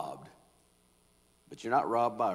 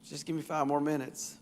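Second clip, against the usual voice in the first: much softer, faster groggy begging; sleepy plea; 4 semitones higher, 8 dB quieter than usual. Retold or imitated. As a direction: whine for five more minutes from under the blanket. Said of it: "say to somebody who's trying to get you going".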